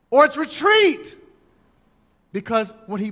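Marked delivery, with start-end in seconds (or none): 0.1-1.2 retreat called higher and louder. Shown as a demonstration. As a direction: call retreat like a bugle blast. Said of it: "How do we know if it's".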